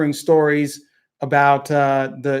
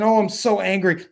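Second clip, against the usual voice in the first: mock anger; 3 semitones higher than usual. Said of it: "pearl clutching".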